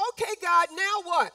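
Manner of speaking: loud, trusting call to God. Retold or imitated. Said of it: "turned around and said".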